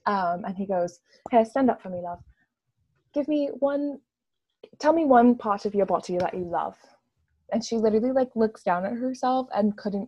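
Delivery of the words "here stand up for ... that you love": put-on British accent. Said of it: "I'm doing his accent".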